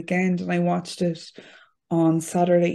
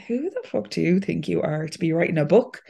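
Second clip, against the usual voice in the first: inner critic voice; 4 semitones higher than usual. Retold or imitated. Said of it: "in that voice that says".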